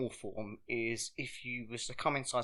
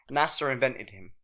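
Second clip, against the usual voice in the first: unvoiced whispered aside; whispering. Real, not acted. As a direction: whisper it like a secret. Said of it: "whispered aside".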